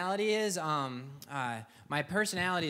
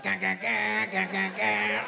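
choppy, raised mouth-made guitar chugs; mock guitar riff; 4 semitones higher, slower than usual. Jamming out on the sewing machine, mock guitar riff. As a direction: chug out a metal riff by mouth. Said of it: "I'd be like".

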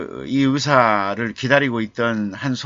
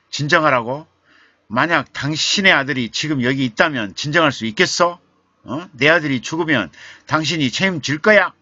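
loud, higher indignant shouting; father blocking the doctor, shouting angrily; angry retort; 6 semitones higher, 5 dB louder than usual. Retold or imitated. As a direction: throw the doctor's words back at him in anger. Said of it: "화를 내는 거예요".

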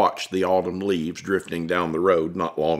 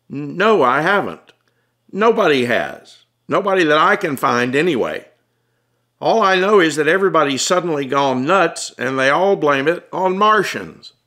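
stammering, raised, uneasy reply; Tom, flustered; 7 semitones higher, 3 dB louder than usual. Acted. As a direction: admit it, rattled and tense.

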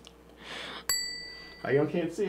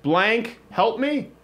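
slow mock plea; 3 semitones higher, much slower than usual. Acting out a clue for the card.

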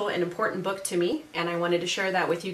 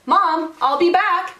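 high, louder call to Mom; yelled; 9 semitones higher, 7 dB louder, slower than usual. A narrator's reading. Boy climbing out his window to Mom, high yell. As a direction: call out excitedly as you leave.

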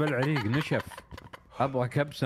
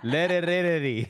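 put-on American accent gibberish; 4 semitones higher, 4 dB louder than usual. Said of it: "بلكنة أمريكية".

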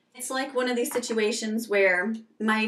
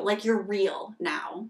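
slow hushed whisper; a slow, intimate whisper for emphasis; slower than usual. Real, not acted. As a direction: drop to a whisper to make it land. Stressing a true moment.

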